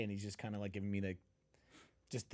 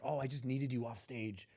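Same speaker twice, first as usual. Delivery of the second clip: mock pained organizer; 2 semitones higher, 4 dB louder than usual. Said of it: "She's like".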